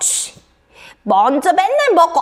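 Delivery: put-on angry, sulking, huffy child voice. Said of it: "하면서 이렇게 화를 내면".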